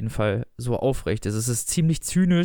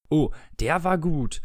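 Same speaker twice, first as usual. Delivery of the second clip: slow, higher mock praise; gespielt begeistert gesagt; 4 semitones higher, slower than usual. A narrator's reading. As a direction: draw out the feigned appreciation. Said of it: "sagten laut". (gespielte Begeisterung, gedehnt)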